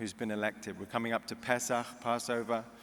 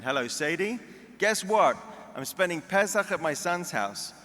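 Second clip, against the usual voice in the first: put-on higher, louder, excited old mom voice; Jewish mother bragging; 7 semitones higher, 4 dB louder than usual. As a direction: gush to her friend like a proud mother. Mother bragging to her friend.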